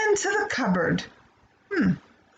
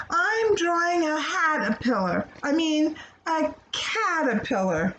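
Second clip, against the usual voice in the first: put-on child voice; 5 semitones higher than usual. Jenny mixes up words.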